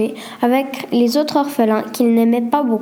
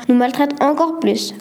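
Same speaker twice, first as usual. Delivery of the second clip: ordinary delivery, nothing marked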